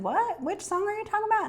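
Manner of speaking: high, fast, incredulous squeak; baffled surprise. Retold or imitated. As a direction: replay your own disbelief at the lyric. Narrator voices her own baffled reaction.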